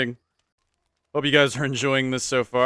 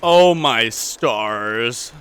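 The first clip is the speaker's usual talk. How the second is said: slow, loud drawn-out oh my stars; stunned gasp; 8 dB louder, much slower than usual. Real, not acted. Gamer awed by something on screen, drawn-out loud gasp. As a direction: gasp it out in amazement. Exclaims alone at sudden sight.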